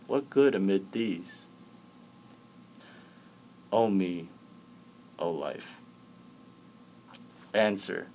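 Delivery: measured recital with long pauses; teacher solemnly reciting verse; poetry recitation. Acted. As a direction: recite it phrase by phrase, letting each line settle. Recites Whitman poem to the class.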